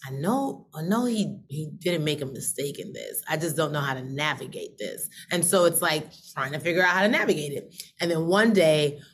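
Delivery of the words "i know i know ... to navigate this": quiet self-reassurance. Retold or imitated. Quiet self-talk about keeping going.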